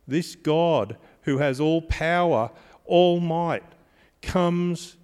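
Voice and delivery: preacher lifting the room; emphatic build. Real, not acted. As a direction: lean hard into "all power, all might". Preacher stressing God's power.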